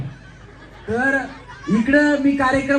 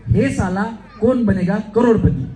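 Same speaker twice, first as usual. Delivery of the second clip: demo dialogue; 4 semitones lower, 4 dB louder, slower than usual. Shown as a demonstration. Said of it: "आता सोपा dialogue".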